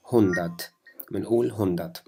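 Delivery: هوندات with a light, short a; standard hundert. Shown as a demonstration. Teacher models standard German hundert. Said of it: "اللفظ الصحيح".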